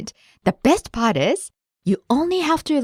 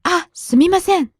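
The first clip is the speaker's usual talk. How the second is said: mild startled apology; 9 semitones higher than usual. Retold or imitated. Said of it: "so she said".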